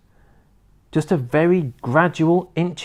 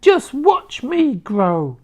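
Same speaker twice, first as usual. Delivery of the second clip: put-on wild old woman's shout; 10 semitones higher, much slower than usual. A narrator's reading. Grandma rising through the floor, screeching with glee. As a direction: whoop with mad joy. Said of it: "she shouted".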